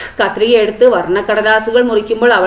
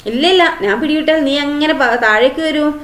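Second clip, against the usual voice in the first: anxious refusal; 6 semitones higher than usual. Acted.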